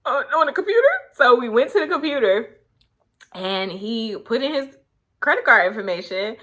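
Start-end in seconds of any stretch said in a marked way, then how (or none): 0.0-0.9 unsure. Retold or imitated. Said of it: "I was like".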